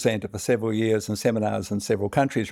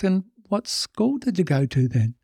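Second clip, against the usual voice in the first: tipsy Irishman; 8 semitones higher than usual. Acted. Drunk Irishman in bar joke.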